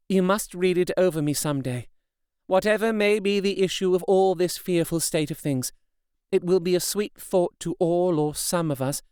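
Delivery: a hint of a resolute young woman; Mina's voice. A narrator's reading. Mina comforts her husband.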